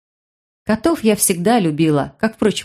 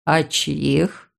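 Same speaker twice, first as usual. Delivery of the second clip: low, soft amused voice; a low amused aside; amused brother; 4 semitones lower, 4 dB quieter than usual. Acted. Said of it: "развеселился".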